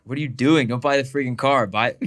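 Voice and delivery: half-playful yell at a cousin; retold yelling. Cousin told not to buy the car, mock yelling. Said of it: "I'm, like, yelling at him".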